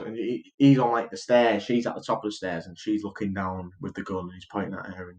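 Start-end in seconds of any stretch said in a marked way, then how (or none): 1.6-5.2 hushed, low retelling; soft talking. Retold or imitated. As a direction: drop to a soft, low murmur as if creeping. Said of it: "she's talking to him real softly".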